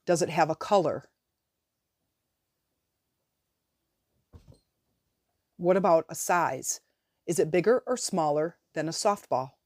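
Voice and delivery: measured guiding voice with long pauses; guided visualization. Real, not acted. Coach guiding listeners to release a limiting belief, guided meditation voice. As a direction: lead them step by step, leaving room after each prompt.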